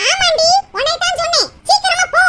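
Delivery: sharp scolding command; angry insisting. Acted. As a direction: send her off impatiently. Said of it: "என்ன இவ்வளவு கோவமா பேசுறாங்க".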